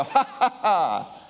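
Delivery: high, carefree demo laugh. Shown as a demonstration. Preacher shows the congregation how to laugh at shame. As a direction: laugh lightly at the trouble. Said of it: "Wouldn't it be great to just go".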